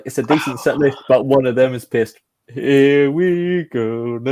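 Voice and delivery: slow, stretched mock showman line, ending drawn out; hammed-up impression of a TV host; lightly voiced host drawling the intro; imitating the host. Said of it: "He was like".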